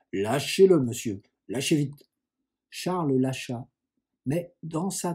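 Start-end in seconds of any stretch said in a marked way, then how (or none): 0.1-2.1 cross order to let go at once; stern, urgent order; sharp command. Acted. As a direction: scold a boy caught in the act. Cousin orders boy to drop sugar.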